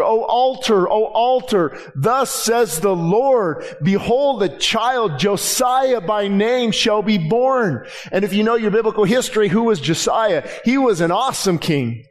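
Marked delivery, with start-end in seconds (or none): 0.0-7.9 prophet crying out. Acted. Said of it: "he cried out to this altar".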